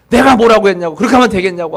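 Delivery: a mock stern bark at a patient; retold scolding. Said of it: "하면서 막 호통을 쳐요".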